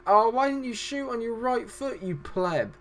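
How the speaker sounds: high wail of frustration easing down; exasperated. Real, not acted. Commentator berating player for the missed shot, exasperated. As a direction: plead in exasperation, then drop off.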